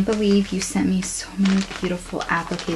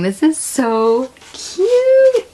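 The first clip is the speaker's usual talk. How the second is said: higher, louder, slow and drawn out; gushing; 8 semitones higher, 5 dB louder, much slower than usual. Real, not acted. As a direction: stretch out the delight. Gushing over a gift.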